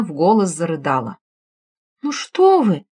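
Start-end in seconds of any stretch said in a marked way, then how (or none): 2.0-2.8 soothing. Acted. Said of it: "пробовала успокоить её Ирина".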